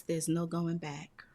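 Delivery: hushed deadpan whisper of the punchline. Acted. Whispered punchline of dark joke.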